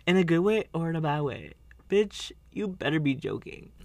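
sassy retort. Retold or imitated. Quoted back-and-forth.

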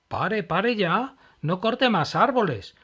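loud, slow urgent plea; pleading. Acted. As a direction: beg the man to stop cutting. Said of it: "pidió Emma".

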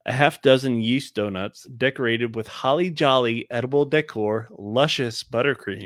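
slow, savored ad-copy read with playful creepiness; mock creepy. Podcaster reading donut description to listeners, mock creepy. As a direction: linger suggestively over each descriptive word. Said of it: "I knew you were gonna make it creepy".

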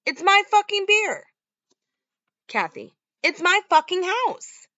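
high, loud furious yelling; angry yelling. Retold or imitated. Boyfriend and mother fight over beer, loud angry yelling. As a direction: scream it back at each other. Couple screaming at each other.

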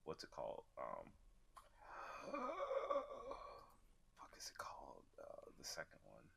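half-whispered, searching for a title; muttering to self. Real, not acted. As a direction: mutter it under your breath. Trying to recall a title.

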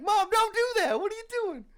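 high, loud alarmed scolding; scolding mom. Retold or imitated. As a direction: scold her like a worried kid. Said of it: "It's like".

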